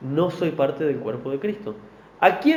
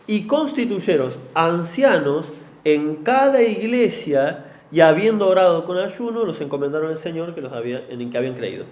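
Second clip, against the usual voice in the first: scripture reading. Acted. Preacher reads Acts aloud.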